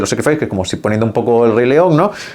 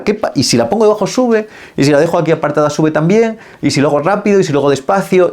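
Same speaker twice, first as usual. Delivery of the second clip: playful testing; 3 semitones higher than usual. Shown as a demonstration. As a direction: toss the questions out like a kid playing. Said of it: "esa parte que es más lúdica".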